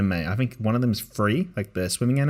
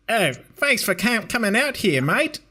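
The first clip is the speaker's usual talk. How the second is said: high, slow, broad Aussie parent greeting; Aussie foster parent welcoming a Japanese student, in a high, slow Australian accent; 11 semitones higher than usual. Retold or imitated. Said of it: "they're Aussie".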